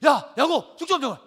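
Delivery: acted starving brother demanding food; hungry demand. Acts hungry Esau demanding stew.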